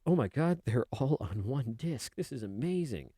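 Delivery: mildly hammed-up wonder, starting high; retold amazement. Player finding all games on one disc, amazed. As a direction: marvel at it, easing down from a high start.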